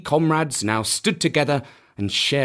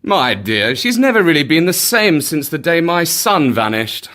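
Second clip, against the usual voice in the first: lightly voiced king, raised voice; protesting king; 3 semitones higher, 5 dB louder than usual. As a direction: remonstrate with your wife, a little loudly. King defends princess to queen.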